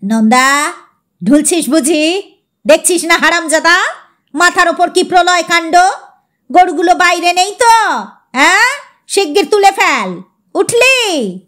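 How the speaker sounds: put-on old master barking orders; scolding servant. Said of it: "ভৃত্যকে বলে উঠলেন".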